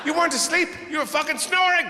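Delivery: hammed-up gotcha; mock accusation. Partner accusing napper.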